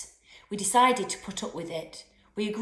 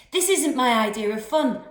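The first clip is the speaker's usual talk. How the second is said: louder, higher, laughter breaking through; cracking up laughing; 5 semitones higher, 7 dB louder than usual. A narrator's reading. Boy in a canoe cracking up, laughing. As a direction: say it while losing it to giggles. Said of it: "cracking up laughing".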